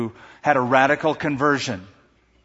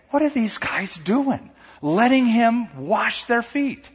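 Peter's inner voice; 8 semitones higher, slower than usual. Acted. Peter's mocking inner thoughts voiced.

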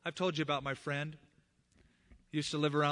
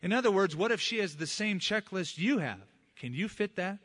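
louder pointed challenge; challenging; 4 semitones higher, 5 dB louder than usual. Retold or imitated. Preacher retells challenging his friend, louder and pointed. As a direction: push the question at him.

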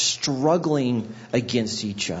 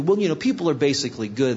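dismissive platitude; faster than usual. Retold or imitated. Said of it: "heard that sentiment".

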